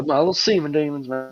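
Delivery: a little southern twang; southern accent. Retold or imitated. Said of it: "you said that with a southern accent too".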